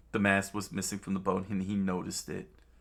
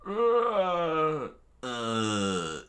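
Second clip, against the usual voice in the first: drawn-out groan; 8 semitones higher, 4 dB louder than usual. Acted. Imitated groan in the story.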